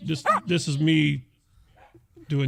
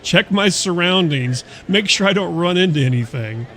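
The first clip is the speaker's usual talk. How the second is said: careful drone operator; 4 semitones higher, 5 dB louder than usual. Retold or imitated. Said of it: "a drone operator that actually gives a shit".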